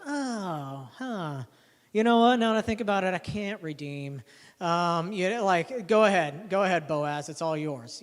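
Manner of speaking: lightly voiced nervous kinsman; redeemer backing out. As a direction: wriggle out of the deal, suddenly loud then deflating.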